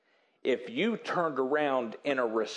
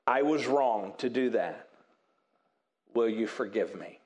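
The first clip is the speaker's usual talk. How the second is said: humble apology; 4 semitones lower than usual. Shown as a demonstration. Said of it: "So it would sound like this".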